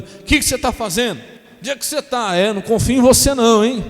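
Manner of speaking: 3 play the suspicious spouse calling every five minutes; 1 jealous spouse. Retold or imitated. 4 pastor imitating a jealous spouse on the phone, mock nagging. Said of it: "ciúme doentio".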